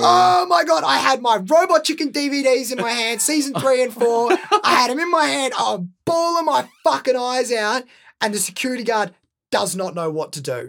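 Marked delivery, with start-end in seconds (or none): 0.0-7.8 excited retelling. Real, not acted.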